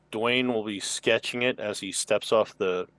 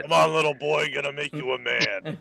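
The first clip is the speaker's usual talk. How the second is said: put-on older Lola voice; 5 semitones higher than usual. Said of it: "It's the older Lola".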